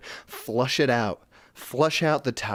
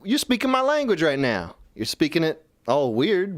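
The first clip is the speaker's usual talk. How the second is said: mock excitement; 4 semitones higher than usual. Own mock reaction quote.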